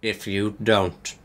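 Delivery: low menacing villain voice; villain's threat. A narrator's reading. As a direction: threaten in a deep, deliberate voice.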